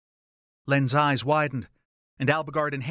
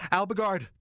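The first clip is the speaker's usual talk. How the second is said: calling out; 6 semitones higher than usual. A narrator's reading. Calling out to trapped friend.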